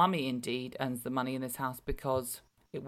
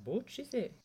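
mock baby voice; 7 semitones higher, much faster than usual. Mother voicing her newborn in a squeaky voice. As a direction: speak as the baby, squeaky and chuffed.

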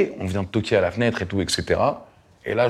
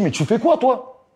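mock angry yell; 12 semitones higher, slower than usual. Yelling at driver who hit car.

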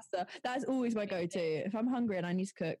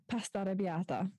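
"arrabbiata" in an Italian accent. Shown as a demonstration. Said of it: "have to say it in the accent".

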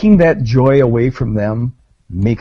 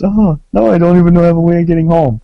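stranded Frenchman; 5 semitones higher, 4 dB louder, faster than usual. Pretend. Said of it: "And you just".

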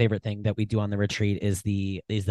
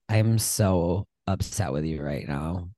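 slow, low, deadpan scolding; a mild unhurried telling-off; imitating her calm anger; calm upset; 4 semitones lower, slower than usual. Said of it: "she doesn't scream".

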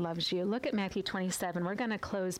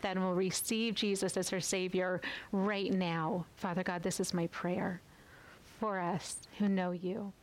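intimate spoken prayer, pausing between lines; closing prayer. Acted.

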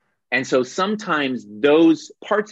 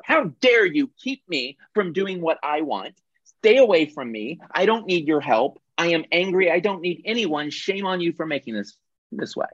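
higher, indignant outburst, hammed-up; mock angry persecutor; 5 semitones higher than usual. Victim turned persecutor, acted with mock anger. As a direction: shove everyone away in mock fury. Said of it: "the victim ... become the persecutor".

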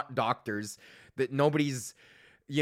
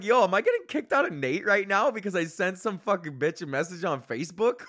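mock alarm; 5 semitones higher than usual. Acts alarm at possibly being expelled.

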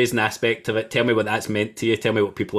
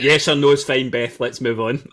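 higher, brisk put-upon voice; mock impatient doctor; 3 semitones higher, 4 dB louder than usual. Host voicing anaesthetist cutting off runner. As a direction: play the fed-up doctor.

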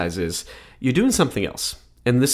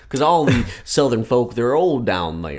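mock Southern accent. Co-host jokes about Southern folk, mock Southern accent. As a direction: play up a folksy Southern accent.

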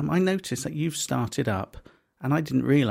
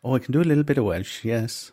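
quick, lightly put-on Welsh accent; amateur Welsh accent; 3 semitones lower than usual. Shown as a demonstration. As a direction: try a little Welsh lilt. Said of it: "Can, can you do Welsh?".

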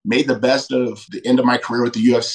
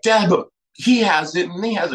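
higher kid voice, mock whining; imitating his kid; 8 semitones higher than usual. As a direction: play the child begging for what others have. Kids complaining to their dad.

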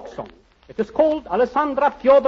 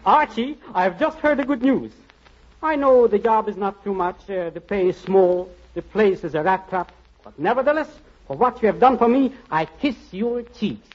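rapid gushing thanks; 4 semitones higher than usual. Acted. Grateful effusive thanks, rapid.

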